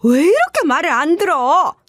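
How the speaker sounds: high, sneering insults; contemptuous rant. Acted. In-law insulting the web novelist's family, sneering high. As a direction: look down on them and rant. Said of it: "막말을 하기 시작했어요".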